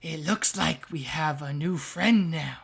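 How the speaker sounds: a patron's voice inside his head, coaxing. Acted. Patron speaking inside Sammy's head, slow and coaxing. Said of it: "You hear".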